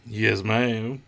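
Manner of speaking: imitated Southern droid; Southern drawl. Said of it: "with the southern drawl".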